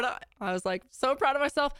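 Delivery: usual speaking voice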